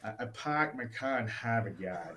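a weak, nasal-ish Boston accent attempt; bad Boston accent. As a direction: try a Boston accent and fall short. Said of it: "that's the best I got".

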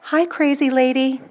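slow, lightly mocking little greeting; lightly voiced tempter; taunting inner voice. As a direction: tease slowly, like a nagging voice in the head. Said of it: "I heard the voice say".

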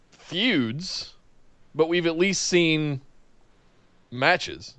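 hiccuping between words; with hiccups. Real, not acted. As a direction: talk through hiccups. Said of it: "I got the hiccups".

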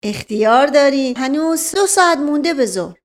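put-on high, stammering old man; flustered old servant. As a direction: stumble over his words, scared. Mash Qasem laughs it off.

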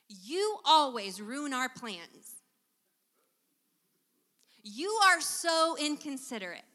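nagging complaint at a partner; critical accusation. Shown as a demonstration.

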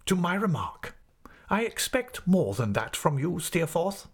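high, measured, condescending headmaster; reproving schoolmaster. Acted. Headmaster tells Steerforth he is surprised, condescending. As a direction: reprove a favourite with pompous courtesy.

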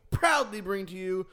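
booming ring announcer intro; big wrestling-style introduction; grand entrance announcement. Acted.

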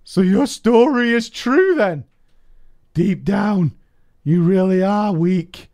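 high, loud, slow sneering taunt; mocking taunt. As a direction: jeer at him from up high. Rival taunts in quoted RP.

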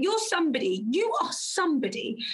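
fervent reassurance. Retold or imitated. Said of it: "I was like".

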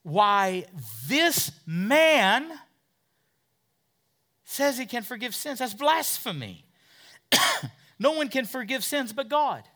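the scribes accuse Jesus of blasphemy with high indignation; scornful scribes. Retold or imitated. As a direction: sneer it out as an outraged scribe. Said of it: "here's what they're saying in their hearts".

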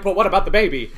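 put-on high, loud, laughing "what about the baby"; mock eager question. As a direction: squeal it out while laughing. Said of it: "you're like".

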